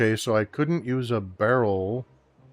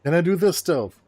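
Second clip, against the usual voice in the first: higher, louder mock query; high hopeful asking; pleading question; 8 semitones higher, 5 dB louder, faster than usual. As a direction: ask it pitched up, then falling. Acted question-and-answer gag with himself.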